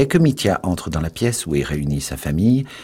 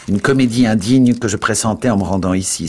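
exclaiming; 5 semitones higher, 5 dB louder than usual. A narrator's reading. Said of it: "s'exclama Dmitri".

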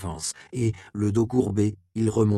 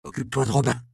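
called out; 5 semitones higher, 3 dB louder, faster than usual. Acted. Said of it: "lança-t-il".

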